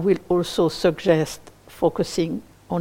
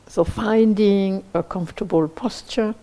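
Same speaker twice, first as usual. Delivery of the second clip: guided meditation. Acted. Teacher leading listeners toward appreciative joy, in a spacious guided meditation voice. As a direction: guide gently, leaving long silences between phrases.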